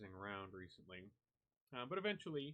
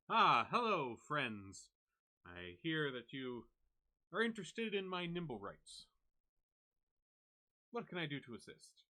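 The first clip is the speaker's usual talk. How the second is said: loud, higher, showy salesman greeting; swaggering captain; 4 semitones higher, 8 dB louder than usual. Acted. Drow captain Zord pitching Nimblewrights to the party, loud showy salesman. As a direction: sell it with a grand flourish.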